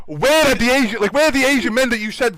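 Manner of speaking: incredulous mimicked questioning; demanding. Acting staff confronting him at door.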